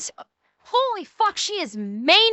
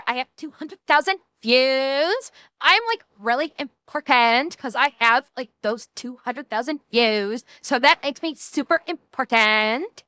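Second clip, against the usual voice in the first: put-on Valley Girl voice. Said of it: "did I scare Dax with my Valley Girl".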